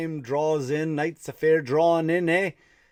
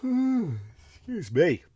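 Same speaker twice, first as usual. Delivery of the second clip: tired sigh; 5 semitones higher, much slower than usual. Real, not acted. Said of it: "I'm just really tired".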